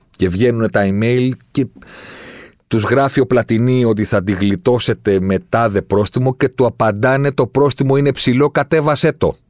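high, worked-up account; exasperated, pitch rising through the quote; indignant retelling. Real, not acted. Outraged retelling of haggling over fines.

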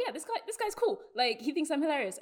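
put-on high bubbly Valley Girl accent. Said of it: "did we just do a fucking Valley Girl accent".

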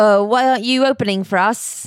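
put-on a light British rock-star accent, lightly done; a rock singer's accent. Co-host steps in to voice a rock singer asking a fellow singer, a quick light British accent. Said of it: "I can't do an accent".

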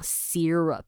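syrup said as SEER-up, long ee. Shown as a demonstration. Teacher shows the long-ee way people say syrup. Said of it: "念起来像S E E R U P这样".

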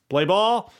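high, loud umpire shout of play ball; mock umpire calling play ball; umpire's call. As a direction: bark it out like an ump calling the game back on. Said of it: "the ump says".

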